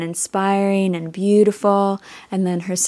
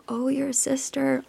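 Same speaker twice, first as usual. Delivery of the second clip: higher, much softer mirrored reply; gentle echo; 5 semitones higher, 7 dB quieter than usual. Retold or imitated. Creatures echo her grief for the child, softly. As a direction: hand her grief back quietly. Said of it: "echoed back to her".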